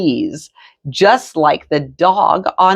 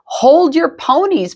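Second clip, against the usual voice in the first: dog buddy voice; 10 semitones higher than usual. A narrator's reading. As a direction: announce it brightly. Chihuahua friend declares.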